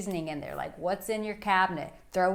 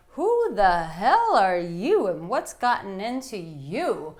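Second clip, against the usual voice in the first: mock surprise; 7 dB louder, slower than usual. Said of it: "she might even look back at it and go".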